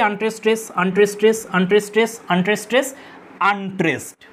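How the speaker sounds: chant-like count of weak আনট্রেসড and stronger স্ট্রেস; unstressed-stressed beat. Shown as a demonstration. Teacher marks each foot for students, আনট্রেসড স্ট্রেস in a steady iambic beat. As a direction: repeat আনট্রেসড স্ট্রেস as even weak-strong pairs, ending alone on আনট্রেসড. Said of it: "এইভাবে প্রত্যেকটা চলবে".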